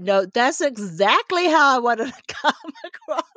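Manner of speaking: playfully insist, then dissolve into laughter; mock-defiant, laughing through the last words; laughing admission.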